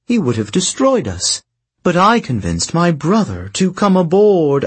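lightly voiced sly sorceress; silky, knowing queen telling her tale; scheming princess voice. Princess tells her story.

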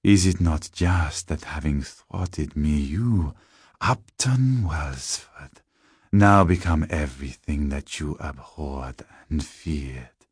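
slow, lightly voiced vampire accuser; measured, taunting villain; sinister tall man. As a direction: relish each word, drawing out the name.

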